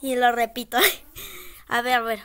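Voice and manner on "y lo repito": nervous laughter. Real, not acted. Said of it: "estoy repitiendo las cosas dos veces".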